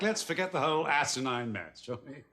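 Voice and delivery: crisp English accent on the phrase. Real, not acted. The speaker's English accent to the couple. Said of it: "doesn't everything sound so poetic in an English accent".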